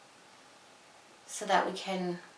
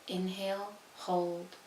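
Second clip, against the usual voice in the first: soft breathing cues, trailing quieter; guided meditation; 10 dB quieter than usual. Acted. Handing listeners their own breathing pace, soft and calm. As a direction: guide the breath gently, phrase by phrase.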